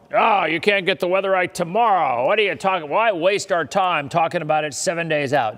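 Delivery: lightly put-on grumpy old-man heckler; mock a cranky critic, half-playful; get off my lawn voice. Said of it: "that's my get off my lawn voice".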